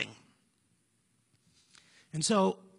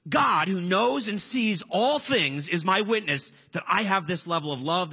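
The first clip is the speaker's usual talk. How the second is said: emphatic, solemn declaration that eases off; super serious; 3 dB louder than usual. Retold or imitated. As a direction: imitate Paul vouching with great seriousness. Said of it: "He's being super serious".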